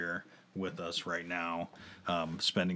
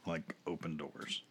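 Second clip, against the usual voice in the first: sultry perfume ad; 3 dB quieter than usual. Shown as a demonstration. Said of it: "read the lyrics in my sultry voice".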